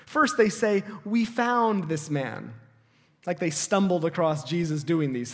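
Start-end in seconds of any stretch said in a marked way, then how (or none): 1.0-2.5 We found this man, slow and pointed; slow stressed quote. Shown as a demonstration. Preacher pointing out the accusers' words, slow stress. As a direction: dwell on We found. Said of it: "notice a few things about these accusations".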